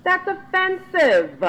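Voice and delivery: high, loud, outraged, slowing at the end; that's offensive, stretched out high and loud; indignant. Retold or imitated. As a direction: protest in rising indignation. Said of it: "And then I was like".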